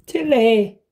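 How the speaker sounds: high call across the house. Real, not acted. Vlogger calling her cat upstairs, high call. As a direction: call the cat's name.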